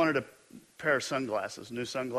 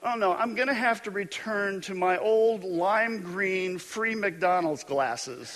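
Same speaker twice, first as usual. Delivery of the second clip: mock panic; 3 semitones higher than usual. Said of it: "I'm thinking".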